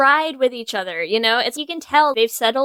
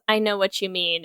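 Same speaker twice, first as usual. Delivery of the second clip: mock hushed film line; 5 semitones lower, 6 dB quieter than usual. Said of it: "she goes".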